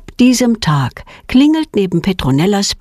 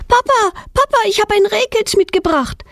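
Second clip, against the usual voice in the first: much higher, eager calling out; excited shout. A narrator's reading. Girl calling her father across the garden, excited and much higher. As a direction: call out to dad, thrilled. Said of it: "schreit Petronella mit aufgeregter Stimme".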